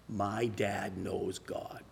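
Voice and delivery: barely voiced, slow, choked with tears; tearful whisper. Father praying to God with tears, whispering. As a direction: whisper it like a prayer through tears. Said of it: "with tears in his eyes".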